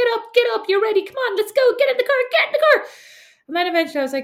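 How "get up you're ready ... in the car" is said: shrill, loud scream, very high-pitched. Retelling how they screamed every morning to get someone out the door: retelling a scream. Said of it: "by just screaming".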